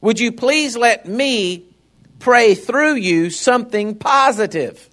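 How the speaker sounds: like God gently asking for silence, slowly; God speaking gently. Retold or imitated. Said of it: "God would want you just to say".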